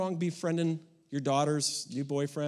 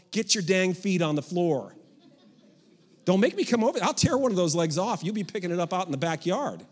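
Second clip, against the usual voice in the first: loud, half-joking threat; mock angry parent; 4 dB louder than usual. Parent to daughter's date, hammed-up angry warning. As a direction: bark it at the couple on the couch. Parent yelling at dating couple.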